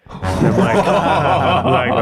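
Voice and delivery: laughing at own story. Real, not acted. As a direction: chuckle as you start the quote. Laughs retelling the arrest.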